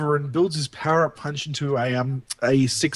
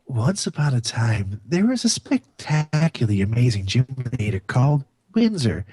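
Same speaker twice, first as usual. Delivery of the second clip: story time voice. Shown as a demonstration. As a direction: read it like a bedtime story. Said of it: "Do the story time voice".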